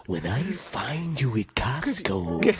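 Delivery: slow, low, lightly growled wrestler promo; mock wrestler buildup; Macho Man impression. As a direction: drag it out like a wrestler. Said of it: "The Macho Man".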